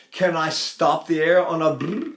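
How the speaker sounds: ordinary talk, nothing marked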